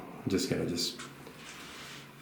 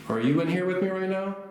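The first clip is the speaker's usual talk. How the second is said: high, raised call into the dark; 10 semitones higher than usual. Real, not acted. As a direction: call out to the unseen spirit. Calling out to a spirit.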